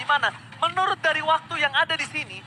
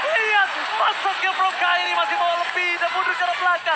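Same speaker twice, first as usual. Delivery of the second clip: normal talking voice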